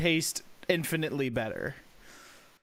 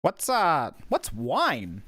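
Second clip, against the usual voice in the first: naive question; 4 semitones lower, much slower than usual. Acted. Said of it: "Edie turns to Trovis and goes".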